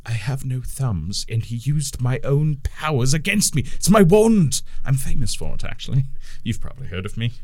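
lightly voiced boastful wizard; sheep wizard.

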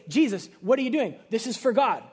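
acted exasperated pushback; indignant protest. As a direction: protest as if wrongly accused. Acted protest of temple sellers to Jesus.

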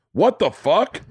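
high, swooping incredulous exclamation; baffled disbelief. Retold or imitated. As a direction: act out total bewilderment, pitch leaping. Acted bafflement after the call.

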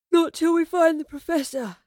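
loud, high yawned protest; words stretched by a yawn. A narrator's reading. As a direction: talk right through a big yawn. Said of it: "Astrid yawned".

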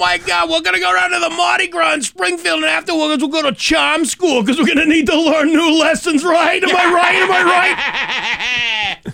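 hammed-up Dorchester guy yelling; loud party-guy Boston voice; Boston bro. Boston bro bit continues.

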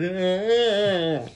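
long drawn-out "aah" of distress; mock monster wail, held out; imitated upset cry. Imitating Ironmonger upset by the flares, drawn-out mock cry. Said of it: "really upsets the Ironmonger".

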